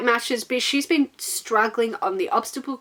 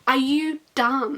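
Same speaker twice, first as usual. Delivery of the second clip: exasperated rant. Retold or imitated. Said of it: "I'm like".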